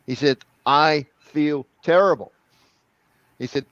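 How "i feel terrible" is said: slow, louder, higher protest; acted distress. French student complaining to his accent coach, acted distress. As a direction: exaggerate each word in mock misery.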